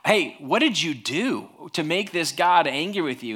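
mock interrogation with swooping pitch; exaggerated accusatory questioning; accusing friends. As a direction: confront him, swinging the pitch up and down. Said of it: "they get to the point where".

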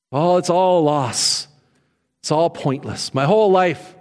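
a touch of hammed-up despair; mock disappointment. Pastor mimicking a disappointed believer, lightly glum. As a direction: sigh it like all is lost. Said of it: "We can be disappointed".

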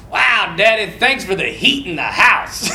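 lightly acted gushing kid thanks; mock gratitude. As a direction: thank Dad with exaggerated wonder. Kids' imagined thanks to dad.

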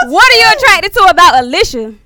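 loud and high, half crying with laughter; barely getting the words out through laughter; laughing. Retold or imitated. Asking the woman what attracts her, laughing hard.

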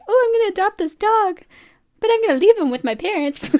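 high, laughing mock voice of her younger self. Joking to listener about adopting dog, laughing high. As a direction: laugh through your own silly plan. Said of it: "I was just like".

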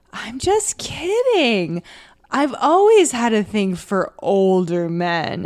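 slow, drawn-out coy come-on; mock seductive. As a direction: stretch it out as a pretend flirt. Acted seductive switch to trick him.

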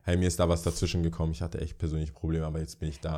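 low, soft, trailing away; understated apology, sinking in volume; discreet excuse. Acted. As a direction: play down a personal problem quietly.

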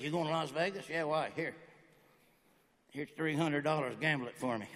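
low, hushed acted exchange; buddy's furtive request. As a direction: keep it down, like a quiet favor between buddies. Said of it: "buddy of mine going like this".

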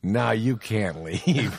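slow, deliberate movie threat; mock menace. Quoting gangster who just locked the door, slow mock menace. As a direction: draw it out, lightly ominous.

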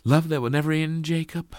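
high, loud, quick question; questioning Sally. A narrator's reading. Sally asks Jacob if love will never end, questioning. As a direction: ask it high and eagerly, seeking confirmation.

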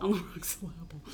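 syllable as sil-LAB-ul, echoed lightly; misplaced stress. Shown as a demonstration. Co-host echoing the joke, syllable stressed in the wrong place. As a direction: stress the middle of syllable on purpose.

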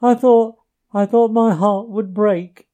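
high, loud, broken sobbing pleas; sobbing brokenly. A narrator's reading. Mole to Ratty, longing for his lost home, sobbing brokenly. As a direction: choke the words out between sobs. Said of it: "he sobbed forth at last brokenly".

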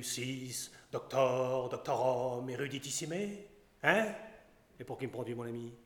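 a hint of a haughty scholar scolding a bumpkin; pompous doctor. Doctor scolds in pedantic Latin.

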